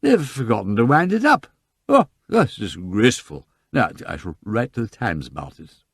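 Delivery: put-on loud, drunken outrage; be outraged like a toff in drink; tipsy indignation. Lord Peter complains about Big Ben, loud and tipsy.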